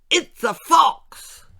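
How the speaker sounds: high, loud and slow alarmed shriek; alarmed cry. Acted. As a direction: squeal it out in horror. Lord shrieking at fox.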